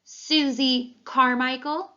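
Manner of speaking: put-on boy calling roll like a basketball announcer, slow and booming. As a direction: announce the name like a courtside MVP introduction. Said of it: "Little Shack tried the voice again".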